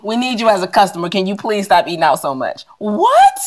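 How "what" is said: high what, cracking with laughter; cry-laughing at the absurdity; laughing disbelief. Real, not acted. Laughing at bank's message.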